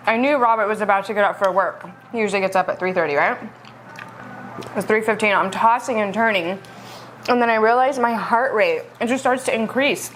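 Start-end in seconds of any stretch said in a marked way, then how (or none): 0.1-6.6 talking while chewing; mouth full. Real, not acted. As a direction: speak through a bite of food. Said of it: "Let me take a bite".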